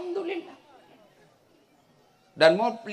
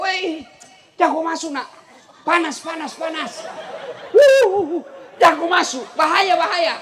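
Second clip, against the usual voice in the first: high, loud warning yell; retold shout; 6 semitones higher, 6 dB louder than usual. Chinese man shouting at the villager to stay out of the lift, loud warning yell. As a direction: yell a warning to keep him out. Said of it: "Dia teriak".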